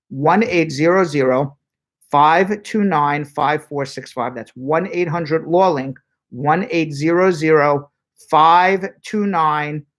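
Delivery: slow, spaced-out phone number; dictating a number slowly; slow dictation. Shown as a demonstration. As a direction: read each digit slowly for listeners to write down. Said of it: "I'll say it slowly two more times".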